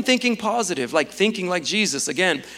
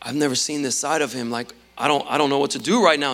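low, uneasy retelling, hurrying at the end; lightly acted unease, pitched down; a little scared; 3 semitones lower than usual. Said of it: "he gets a little scared".

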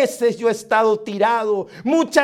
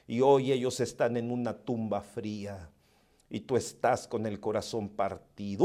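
soft, low, intimate preaching; hushed sermon; 8 semitones lower, 9 dB quieter than usual. Acted. Preacher comforting the grieving listener, softly. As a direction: lean in and speak softly to the hurting.

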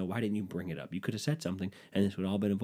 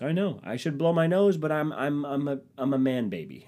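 mock self-pity; 6 semitones higher, 3 dB louder than usual. Mocks himself as man baby.

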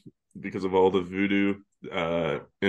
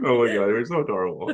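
gushing quote broken by laughter, quicker; laughing gush; 2 semitones higher, faster than usual. Retold or imitated. Retelling the flirting couple, laughing while gushing. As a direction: giggle through the cutesy line.

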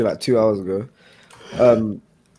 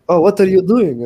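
customer voice; 8 semitones higher, 6 dB louder than usual. Retold or imitated. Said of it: "And then he was like".

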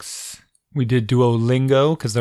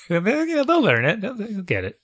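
laughing; 10 semitones higher than usual. Real, not acted. Laughing after son's accent story.

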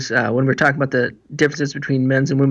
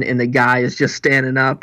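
ordinary delivery

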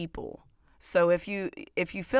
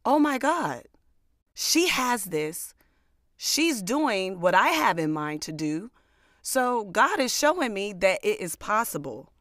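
excited inner voice; 4 semitones higher than usual. Retold or imitated. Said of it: "look at it in the aspect of".

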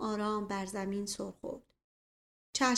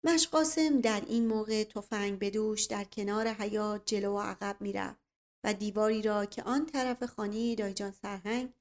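ordinary delivery, nothing marked

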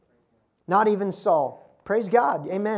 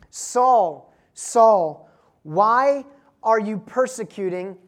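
voice from heaven calling; 5 dB louder, much slower than usual. Acted. Preacher voices Jesus calling Saul.

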